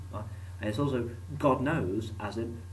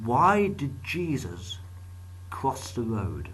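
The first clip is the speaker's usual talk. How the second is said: milk the setup slowly; slow joke setup; 3 semitones higher, 4 dB louder, much slower than usual. Acted.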